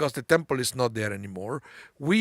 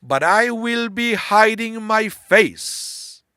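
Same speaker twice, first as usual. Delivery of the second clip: solemn voice of God; 8 semitones higher, 7 dB louder, much slower than usual. Retold or imitated. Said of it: "God is saying".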